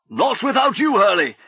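high, loud refusal; protesting shout. Acted. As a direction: call down refusing to go. Bags refusing to leave.

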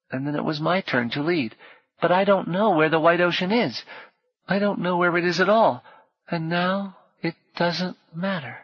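put-on high child voice, tired and final; a lost boy giving up hope; weary child. A narrator's reading. Boy tells Paul he cannot find the white ocean, weary. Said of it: "with a terrible, weary finality".

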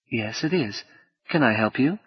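soft woman's voice, lightly southern US; slight southern accent. Acted. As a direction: answer softly with a hint of Southern. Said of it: "tinged with a slight southern accent".

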